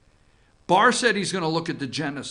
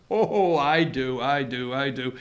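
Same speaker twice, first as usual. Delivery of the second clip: dropping to a hush; 7 semitones lower, 5 dB quieter than usual. Acted. Answering own tease.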